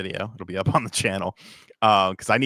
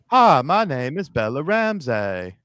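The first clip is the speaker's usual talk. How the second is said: put-on Southern accent; 3 semitones higher, 5 dB louder than usual. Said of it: "I've been doing my Bella Ramsey impression".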